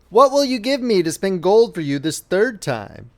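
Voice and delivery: lightly voiced little man, high start; a droll little man greeting the girl; hobgoblin voice. Hobgoblin asks the weeping miller's daughter, lightly high voice. Dwarf's voice in story.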